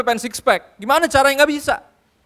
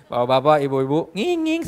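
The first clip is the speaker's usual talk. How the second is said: village head speech; 5 semitones lower, slower than usual. Retold or imitated. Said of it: "sambutan Pak Lurah".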